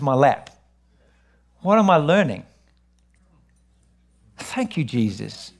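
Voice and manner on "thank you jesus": soft, slow murmured thanks to God; quiet thanks. Real, not acted. Pastor breathes a quiet thanks to Jesus. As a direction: drop low and hush it like a prayer.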